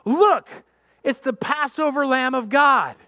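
high, loud announcement; John the Baptist pointing out Jesus; proclaiming. Retold or imitated. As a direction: call it out to the whole crowd. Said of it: "he says".

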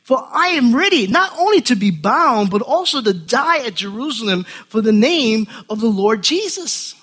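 a lightly voiced Paul begging his friends; pleading Paul. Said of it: "I said".

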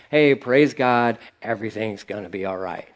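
paste on a smile and fade; forced smile. Retold or imitated. Churchgoer faking joy while dying inside, forced and fading. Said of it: "I'll put on a smile".

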